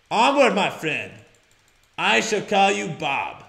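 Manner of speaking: slow, hammed-up Russian accent; bad Russian accent. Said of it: "Bob's has a Russian accent".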